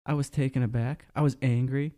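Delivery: mocking Warren. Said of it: "Warren just answers the question".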